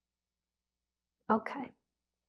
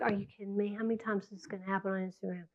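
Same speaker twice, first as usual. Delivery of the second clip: exasperated inner voice; 11 dB quieter, much faster than usual. Retold or imitated. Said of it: "in your head you're like".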